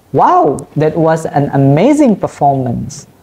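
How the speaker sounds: excited example read aloud; excited exclamation. Shown as a demonstration. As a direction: lift the wow, sell amazing with excitement. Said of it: "indicate strong emphasis or excitement".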